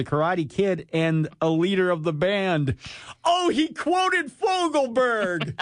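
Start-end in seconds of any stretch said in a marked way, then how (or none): 3.2-5.6 high laughing outburst. Real, not acted. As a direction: crack up mid-sentence. Laughing at the song lyric.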